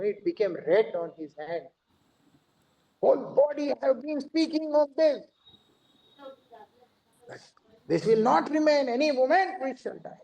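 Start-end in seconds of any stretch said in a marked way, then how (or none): 3.0-8.9 put-on raised high and forceful, an old guru proclaiming; heavy elder's voice. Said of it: "a very heavy voice". 8.9-10.2 "Any moment we shall die" said high and forceful with a falling end on "moment"; "Any moment we shall die" in a raised guru's voice, first take; heavy proclaiming voice. Retold or imitated. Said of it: "a very heavy voice".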